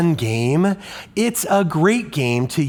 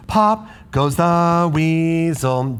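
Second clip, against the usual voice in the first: wrong rhythm; 3 semitones higher, slower than usual. Shown as a demonstration. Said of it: "That doesn't sound right".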